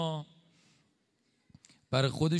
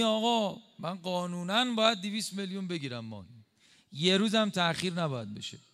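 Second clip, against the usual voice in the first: higher, whiny mock of a greedy official; mock entitled official; 5 semitones higher than usual. Preacher mocking the official who claims his salary, higher mock voice. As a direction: lightly parody a smug bureaucrat.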